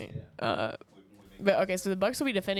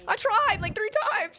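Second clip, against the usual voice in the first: hiccups; 12 semitones higher, slower than usual. Real, not acted. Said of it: "I sound like a dolphin there".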